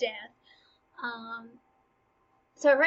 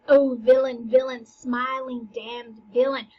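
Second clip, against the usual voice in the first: mock outrage; 6 dB louder than usual. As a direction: act out Hamlet cursing, loud at first. Hamlet curses Claudius, acted.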